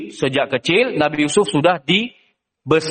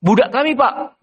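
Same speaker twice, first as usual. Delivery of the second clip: high, eager calling out; calling brothers; 9 semitones higher than usual. Acted. Brothers call the trader over, high and eager. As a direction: flag the trader down, pitched high. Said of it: "dia panggil".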